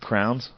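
"Crowns" echoed as one syllable, like towns; crayons as crowns. Retold or imitated. Questioning co-host's word for crayons, "Crowns". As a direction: softly query "Crowns", with a rise. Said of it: "you call 'em crowns".

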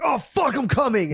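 high-pitched fake climax cry; mock moaning. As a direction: moan it out high, hammed-up. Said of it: "be like".

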